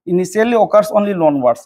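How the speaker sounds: slow and deliberate, spelling out the phrase; slow dictation. Shown as a demonstration. Teacher dictating the phrase to students, slowly. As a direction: read it out slowly so it can be copied. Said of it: "ꯑꯗꯨꯅ ꯃꯁꯤꯁꯦ".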